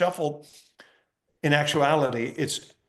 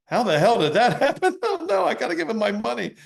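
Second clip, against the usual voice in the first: high, loud startled outburst with a laugh; real shocked dismay; 9 semitones higher, 4 dB louder than usual. Real, not acted. Magician yelping as the trick fails. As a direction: genuinely caught off guard, yelping in disbelief.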